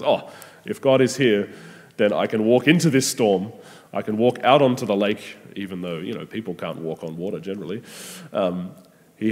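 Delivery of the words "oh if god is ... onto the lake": eager, courageous. Retold or imitated. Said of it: "courageous heart of faith that says".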